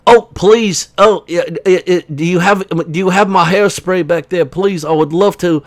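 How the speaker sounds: a fussy, faltering plea; lightly put-on voice, stumbling over a polite request; lightly voiced H. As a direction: plead fussily in a mock voice. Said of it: "H is back here farting around".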